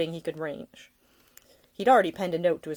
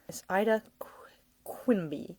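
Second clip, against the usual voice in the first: whisper; 3 semitones higher, 4 dB quieter than usual. Acted. Practising her surname under his breath.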